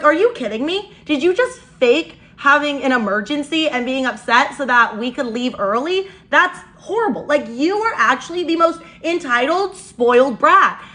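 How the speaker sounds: retold outrage, hitting the insult hard; mad retelling. Storyteller confronting the faked emergency, indignant. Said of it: "this is when I get mad".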